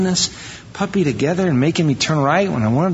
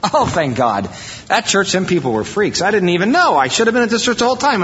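rising higher and quicker with delight; thrilled visitor gushing over the new church; excited churchgoer; 5 semitones higher than usual. Retold or imitated. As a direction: gush like a thrilled convert. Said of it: "You're gonna go".

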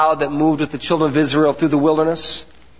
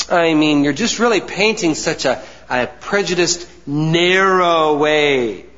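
protesting, climbing higher to the end; whiny-complaint imitation, drawing out "narrow way"; mock objection; 4 semitones higher than usual. Preacher voices an objector complaining to the Father, mock protest.

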